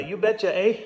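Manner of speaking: mock Minnesotan accent with a Canadian "eh"; lightly put-on Minnesota accent. Game player voicing a Fargo character, mock Minnesotan accent. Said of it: "people who talk that way".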